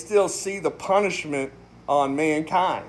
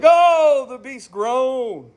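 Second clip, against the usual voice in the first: groaning exclamation; 5 semitones higher, 3 dB louder, much slower than usual. Shown as a demonstration. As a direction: cry it out like a lament, then let it sink. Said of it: "is an exclamation".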